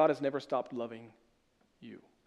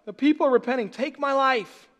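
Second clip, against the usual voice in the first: pouty Jonah; 9 semitones higher, 6 dB louder than usual. Retold or imitated. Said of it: "This is what it feels like".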